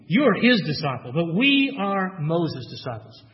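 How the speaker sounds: scornful. Retold or imitated. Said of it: "they reviled him".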